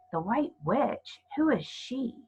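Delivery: put-on slow, puzzled girl's question; a child wondering aloud; lightly voiced girl. Lucy asks the fawn, a lightly voiced girl.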